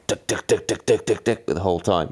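rapid, rhythmic mechanical ticking; imitated turbo knocking. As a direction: imitate a knocking bike trainer. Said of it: "big knocking sound".

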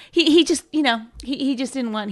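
hesitant mom. Retold or imitated. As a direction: stumble over the excuse. Mom voiced, hesitant excuse.

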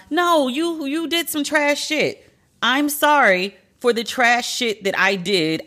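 high, slow, emphatic; exasperated insistence. Real, not acted. Host demanding accountability, high and emphatic. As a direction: spell out the real apology. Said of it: "take accountability".

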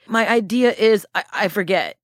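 mock stumbling as the mind goes blank; acted awkwardness. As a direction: act tongue-tied before an investor. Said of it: "so uncomfortable".

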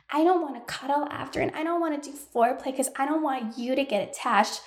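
quick, mocking little-boy voice; mocking a boyish man. Mocking a twenty-one-year-old hookup guy, lightly boyish and quick. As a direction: parody a man-child brushing off cuddling. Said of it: "just, like, a little boy".

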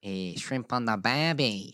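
hammed-up Australian accent. Shown as a demonstration. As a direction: stretch it in a mock Australian accent. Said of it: "You did Australian".

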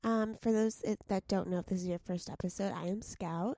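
creaky, sleepy voice; vocal fry. Real, not acted. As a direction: talk with a morning creak. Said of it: "your vocal fry is in full force".

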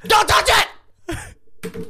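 high, very slow, drawn-out warning; hammed-up stern don't touch it; mock warning. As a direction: stretch it out like a warning siren. Mock warning about his pen.

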